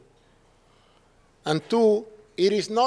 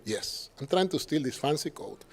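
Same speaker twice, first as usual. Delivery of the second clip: sarcastic reply. Retold or imitated. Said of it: "Second time".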